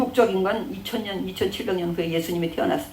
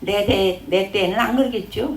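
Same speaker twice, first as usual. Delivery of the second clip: lightly voiced selfish king, a bit louder; half-hearted impression of a careless king; mild mock of a complacent king; 3 semitones higher, 5 dB louder than usual. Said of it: "이래".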